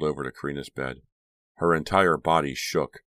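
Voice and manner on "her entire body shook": usual speaking voice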